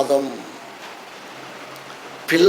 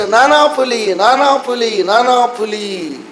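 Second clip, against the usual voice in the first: higher mock call for dad, slowing at the end; prank call; 4 semitones higher, slower than usual. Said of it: "ఈ పిల్లోడు మళ్ళా పిలిచాడు".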